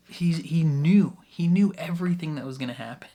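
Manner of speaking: breathy hushed reveal, rushing the end; dramatic whisper. Real, not acted. Whispering to viewers that he knew everything. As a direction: lean in and whisper the secret.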